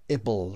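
"able" said ih-bull; short-I "ible". Shown as a demonstration.

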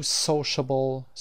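SO in "sociable" stressed; stress on first syllable. Shown as a demonstration. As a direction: lean on the opening syllable of "sociable", slowly.

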